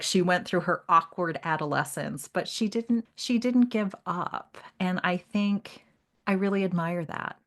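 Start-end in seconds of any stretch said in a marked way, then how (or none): none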